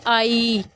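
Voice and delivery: "आई" stretched out steadily; drawn-out "आई", showing a long vowel. Shown as a demonstration. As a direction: hold the sound of "आई" long. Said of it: "जब हम ये long में कैसे जाते हैं".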